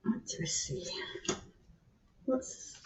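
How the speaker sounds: hushed unvoiced whisper. Real, not acted. Listening for the cat at the door, whispering. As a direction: whisper so you can listen.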